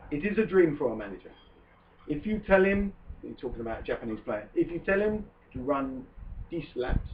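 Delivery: put-on a light French accent for Arsene Wenger's words. Host quoting Wenger to co-host, light French accent. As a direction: quote the manager in a mild French accent. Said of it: "I'm just not sure I like your French accent".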